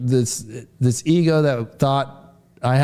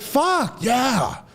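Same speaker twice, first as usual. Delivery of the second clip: much higher mock shout of yes; pumped-up cheer; 9 semitones higher than usual. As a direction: hype it up like a win.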